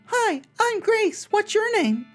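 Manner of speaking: very high, slow creepy doll voice; sweet and unsettling talking doll; too calm creepy doll. Acted. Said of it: "its mouth begins to move".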